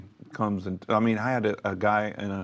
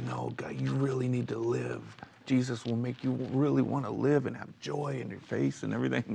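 starts whispered, then soft urgent pleading; hushed earnest plea to a stranger; imitated whispered plea; 3 semitones higher, 3 dB quieter than usual. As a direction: plead softly as if begging someone to live. Pleading with someone, acted quote.

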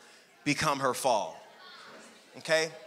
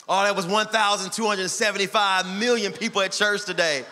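boasting pastor; 4 semitones higher, 5 dB louder than usual. Retold or imitated. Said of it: "We be like".

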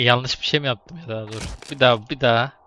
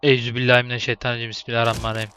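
quick mock prayer; faster than usual. Joking prayer before jump.

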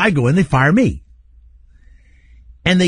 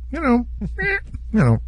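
laughing through it; 10 semitones higher, 5 dB quieter than usual. Retold or imitated. Mock quote breaks into laughter.

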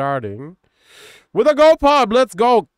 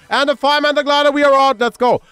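excited; 8 semitones higher, 5 dB louder than usual. Real, not acted. Excited reading of items.

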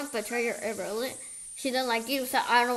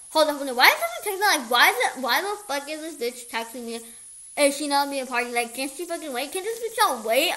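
higher-pitched exasperated outburst; irritated reaction; 3 semitones higher, 4 dB louder than usual. Acted. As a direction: act out being fed up with a texter. Acted irritated reaction to a text.

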